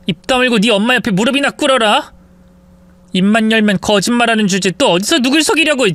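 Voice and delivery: cold fury at a lying husband; angry wife. Acted. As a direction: order him to kneel and beg. Wife orders husband to kneel.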